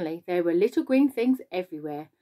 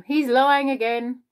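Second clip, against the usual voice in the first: higher, louder, drawn-out accusation; indignant shriek; 5 semitones higher, 5 dB louder, slower than usual. A narrator's reading. Earthworm accusing the centipede of lying, indignant. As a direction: protest with a mild shriek. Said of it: "shrieked the earthworm".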